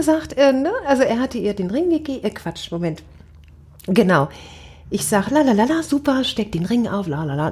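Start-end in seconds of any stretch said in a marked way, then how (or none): 5.3-7.5 filler syllables. Retold or imitated. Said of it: "jetzt in Kurzfassung".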